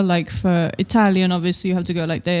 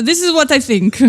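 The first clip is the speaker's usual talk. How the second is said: higher, playful Scottish voice; mock Scottish accent; 7 semitones higher, 4 dB louder than usual. Co-host plays along with the story, mock Scottish accent. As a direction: put on a joking Scottish accent. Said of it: "dressed in a Scottish".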